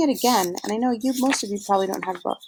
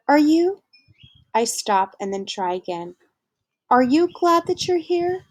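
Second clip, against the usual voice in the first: timid high question; 7 semitones higher, 3 dB louder than usual. Acted. Boy asks aunt hesitantly.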